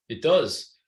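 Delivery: put-on light British accent on "It does". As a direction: imitate him in a mild British accent. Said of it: "he said that in this British accent".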